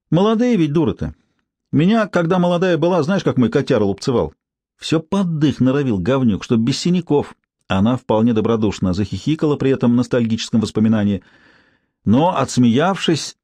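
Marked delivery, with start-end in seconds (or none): 0.1-7.3 a hint of a brassy street woman; lightly voiced, higher, mocking gossip; coarse street woman. Tsypka reminiscing.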